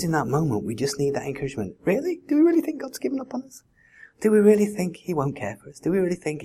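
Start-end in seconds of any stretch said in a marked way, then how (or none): 1.8-6.4 high, fast, urgent rhetorical questions; impassioned challenge. Real, not acted. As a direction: press the congregation hard with disbelief. Rousing rhetorical questions to congregation.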